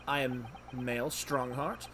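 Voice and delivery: slow, measured self-introduction; lightly voiced, unhurried dignitary; Chief Justice introducing himself. Judge introducing himself to visitors, slow and measured.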